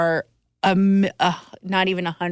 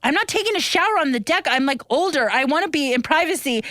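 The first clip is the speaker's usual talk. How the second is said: retold argument; 7 semitones higher than usual. Retold quarrel on the boat.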